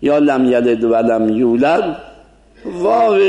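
و in یولد as Persian v; Persian-accented waw. Shown as a demonstration. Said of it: "منتها لهجهٔ فارسی درشه".

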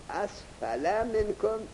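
اسفل read with a fatha ending, asfala; student's reading quoted. Shown as a demonstration. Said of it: "چرا اسفل خوندی؟". (اسفل با فتحه)

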